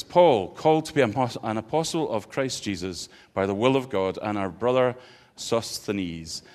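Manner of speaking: measured Bible reading to the congregation; scripture reading. Acted. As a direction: read the letter out with care. Reads the scripture aloud.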